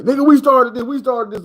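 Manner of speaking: West Coast claim. Retold or imitated. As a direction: insist you started it. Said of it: "the West Coast be like".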